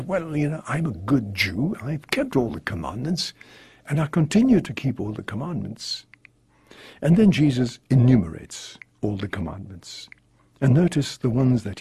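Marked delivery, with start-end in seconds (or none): 0.0-6.1 a touch of smug pride; lightly voiced boastful young man; proud. Young man boasting to Jesus of his obedience, mildly proud. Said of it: "And very proudly he says".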